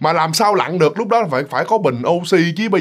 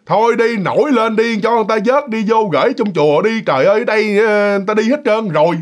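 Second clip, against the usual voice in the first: put-on higher, coaxing old man's voice; drunk old man coaxing the dead; 5 semitones higher than usual. Tipsy old man coaxing the dead grandfather to rise. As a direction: gently shoo the ghost on like a tipsy neighbour. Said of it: "ông nói gì nè".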